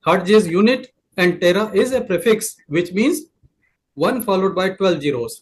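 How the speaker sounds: slow, careful definition; slow explanation of the prefix tera; slow teaching pace. Shown as a demonstration. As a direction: lay it out slowly for the class. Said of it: "teacher defining slowly".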